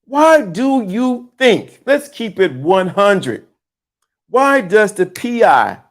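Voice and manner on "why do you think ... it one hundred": ordinary talk, nothing marked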